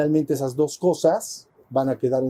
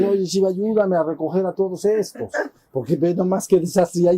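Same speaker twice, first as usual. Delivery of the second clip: higher, urgent plea to husband; pleading wife; 5 semitones higher than usual. Retold or imitated. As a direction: beg him to help, pitched up. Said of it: "entonces va con Shiva".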